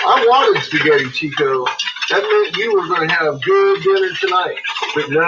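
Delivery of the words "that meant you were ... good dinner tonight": high voice to the dog. Acted.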